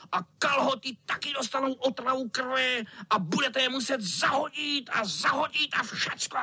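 high gloating cat villain; threatening cat. A narrator's reading. Cat threatens to chew the boys' caps. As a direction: threaten them with relish. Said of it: "strašil".

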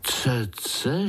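voiced rising question; amazed question. Little spiders asking the uncle aloud, puzzled. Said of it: "žasli pavoučci".

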